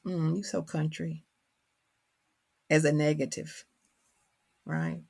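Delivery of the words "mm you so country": softer, mildly dismissive put-down. Retold or imitated. Peers judging her accent, mildly imitated dismissiveness. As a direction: brush them off with a mock "mm". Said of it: "that sort of dismissive".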